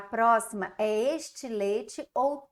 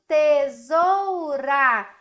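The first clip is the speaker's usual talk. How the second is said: tesoura said very slowly and fully; slow full word; 3 semitones higher, 7 dB louder, much slower than usual. Shown as a demonstration. Teacher presenting the completed word. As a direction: give the finished word slowly. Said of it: "Termina com A".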